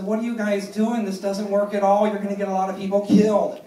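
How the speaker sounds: indignant complaint. Retold or imitated. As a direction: complain down the phone, worked up. Acted complaint call to singer's people.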